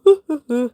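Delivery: loud open yawn; a big tired yawn. Real, not acted. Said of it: "Sorry, sorry for yawning".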